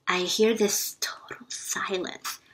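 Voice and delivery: whispered, breathy hush. Retold or imitated. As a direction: drop to a whisper for the silence. Hushed retelling of silent room.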